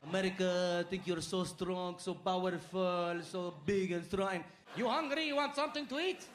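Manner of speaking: a cousin in Amman taunting America with fast-food offers; mocking Jordanian cousin. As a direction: tease the American like a host. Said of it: "my cousin, who's like".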